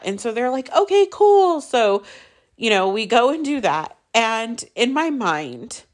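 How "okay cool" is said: high-pitched retold "sure" reaction; mock easy agreement. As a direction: imitate relatives readily agreeing, pitched up high. Voices families agreeing to plan.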